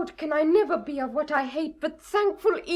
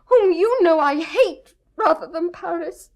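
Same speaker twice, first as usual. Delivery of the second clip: tearful outburst; 6 dB louder than usual. Acted. Juliet refuses Paris, in tears.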